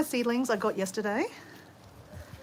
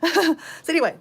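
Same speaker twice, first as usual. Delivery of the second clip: laughing; 8 semitones higher, 7 dB louder than usual. Real, not acted. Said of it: "I'll talk normally now".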